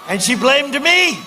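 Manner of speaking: slow, loud, indignant complaint; indignant slow shout. Real, not acted. Rally speaker protesting the governor blamed him, slow indignant shout. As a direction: lean hard on me, slowly.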